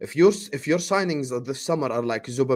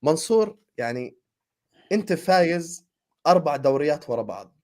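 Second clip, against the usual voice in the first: speaking Arabic; 3 semitones lower, much faster than usual. Real, not acted. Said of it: "I'm gonna respond to him in Arabic".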